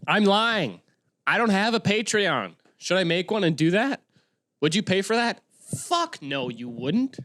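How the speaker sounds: high, comic self-questioning; mock-agitated confession. Confessing to viewers he has no Patreon, high mock agitation. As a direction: pitch it up, exaggeratedly worked up.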